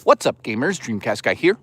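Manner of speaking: lightly imitated streamer greeting; a hint of mock YouTuber intro, rising at the end; Dreamcast guy. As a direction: toss off the gamer catchphrase with a swooping lilt. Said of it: "Dreamcast guy sounds like this".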